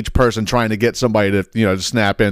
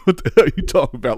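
high-pitched mock cranky rant; older man's voice; 7 semitones higher, faster than usual. Comedian shows the voice older Black men grow into, high cranky mock rant. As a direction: imitate an older man cussing someone out. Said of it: "just so you can get the voice".

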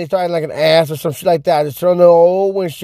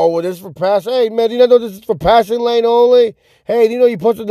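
a raised, nagging know-it-all voice; mock lecturing; 6 semitones higher than usual. Mocking a driver who lectures him about the passing lane, raised and nagging. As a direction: parrot the passing-lane rule snidely. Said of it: "I'm not gonna go".

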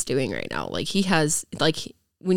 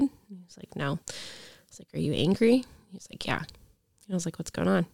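hushed; 5 dB quieter than usual. Retold or imitated. Gentle questions to upset son.

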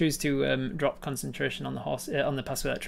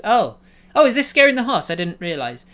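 much higher, louder mock surprise; faux-innocent sprite; 7 semitones higher, 10 dB louder than usual. Sprite feigns surprise at scaring the horse, high. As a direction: play dumb, wide-eyed. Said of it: "And she says".

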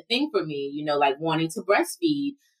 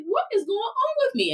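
tearful. Retold or imitated. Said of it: "I was like".

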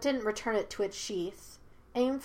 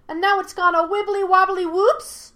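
put-on high, loud, childlike whoop; playful monkey spirit; 11 semitones higher, 11 dB louder than usual. A narrator's reading. Monkey spirit swings faster and drops, whooping. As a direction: whoop it out gleefully.

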